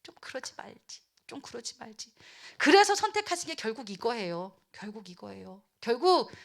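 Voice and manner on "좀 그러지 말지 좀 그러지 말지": very soft, near-whispered regret; hushed, hurt lament; sorrowful. Acted. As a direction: murmur it sadly to yourself. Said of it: "하나님이 막 슬프셨어요".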